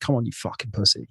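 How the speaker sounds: the gym voice that always talked him down; harsh self-talk. Retold or imitated. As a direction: mutter a contemptuous insult at yourself. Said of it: "talking down, always negative".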